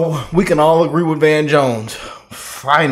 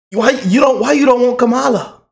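higher, hammed-up pleading voice; mock worried Democrat; 9 semitones higher, 3 dB louder than usual. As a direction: whine it like a scared party insider. Skit of Democrats arguing.

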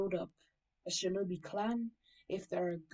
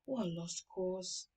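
sighing; 5 dB quieter, slower than usual. Acted. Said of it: "He sighs and says".

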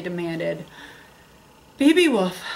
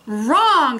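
squealed; 3 semitones higher, 4 dB louder than usual. Acted. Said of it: "squealed a little voice".

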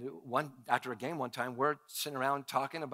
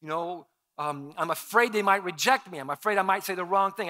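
mock fearful worrying; 3 semitones higher, 6 dB louder than usual. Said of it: "You're not the first person that's been afraid".

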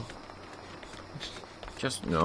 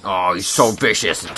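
mock awe; 7 dB louder, slower than usual. Mocking a weak enemy.

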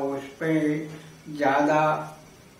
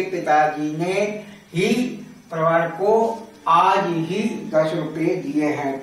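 ही set apart by pauses, आज ही emphasized; stress on ही and आज ही. Shown as a demonstration. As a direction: pause before ही, then lean on आज ही. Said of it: "मतलब इससे स्पष्ट होता है".

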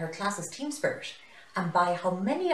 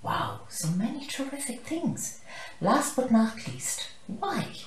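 excited high teacher; 8 semitones higher, 3 dB louder than usual. Acted.

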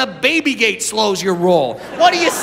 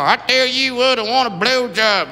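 put-on Southern accent; 4 semitones higher than usual. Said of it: "You could be in the deep south".

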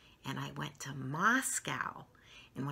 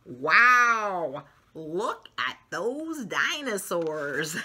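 put-on excited child; 9 dB louder, much slower than usual. Child character marvels.

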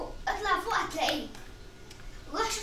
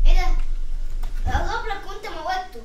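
loud callout; 13 dB louder than usual. Real, not acted. Telling teammate in game.

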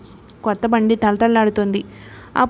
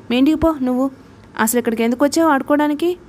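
mocking taunt; 4 semitones higher, faster than usual. Rich boy taunts Appu away.

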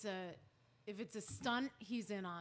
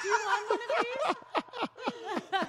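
high, very slow, drawn-out movie voice; Austin Powers impression; 10 semitones higher, much slower than usual. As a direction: stretch it out like a goofy movie villain. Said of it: "like an Austin Powers thing".

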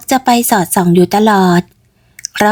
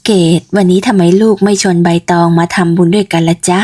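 put-on older mother; 2 semitones lower than usual. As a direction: ask your daughter gently. Ked's mother asks. (แม่ถามลูกสาว เสียงต่ำแบบผู้ใหญ่)

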